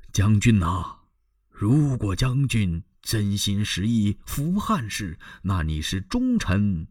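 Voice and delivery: slow, weighty persuasion; old minister goading. Acted. Minister provoking the general toward loyalty, slow and weighty. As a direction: spell out loyalty and shame slowly. Wang Yun goads Lü Bu.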